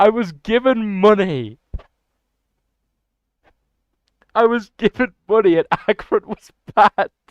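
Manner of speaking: laughing while talking. Reacting to a viewer getting auto-banned after giving money: laughing while talking. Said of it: "I'm cracking up".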